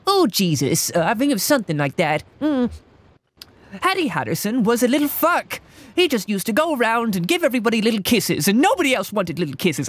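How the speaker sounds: a hint of the Battle Block Theater narrator; old catchphrase voice. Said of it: "catchphrase that you used to do".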